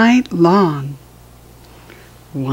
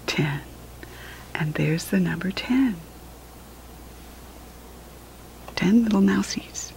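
much softer hushed whisper; 8 dB quieter than usual. Acted. Parent finishing the counting book with the child, softer whisper. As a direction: wind down in a gentle whisper.

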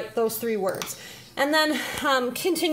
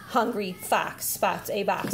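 lightly voiced student, slower, lower and softer; student repeating; 5 semitones lower, 5 dB quieter than usual. Shown as a demonstration. Student repeats after parent, slow low echo. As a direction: echo the line slowly and quietly, a little lower. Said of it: "Then the student would read".

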